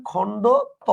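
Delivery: "খণ্ড ত" in two parts with a pause before "ত"; "খণ্ড ... ত", split to show what the name contains; name broken apart. Shown as a demonstration. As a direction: set "ত" apart after "খণ্ড". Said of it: "নামটা হচ্ছে".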